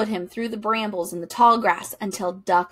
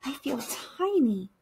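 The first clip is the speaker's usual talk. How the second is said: small voice; 3 semitones higher, 6 dB quieter than usual. A narrator's reading. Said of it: "quacked Duck".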